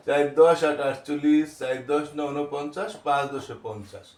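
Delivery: rhythmic rote number drill; careful model recitation. Shown as a demonstration. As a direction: recite in even phrases for pupils to copy. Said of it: "উচ্চারণগুলি আমি যেভাবে বললাম". (স্পষ্ট উচ্চারণে নামতার মতো পাঠ)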